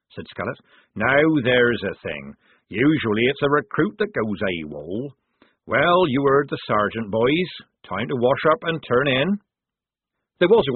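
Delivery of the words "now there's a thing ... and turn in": put-on drawn-out musing, then brisk call to the boys; lightly voiced soldier taking charge; soldier musing, then rallying. Scallop comments, orders the boys.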